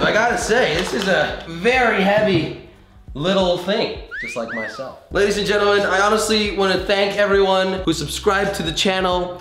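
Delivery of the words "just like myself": squeaky joke voice. Acted. Joke about being heavy.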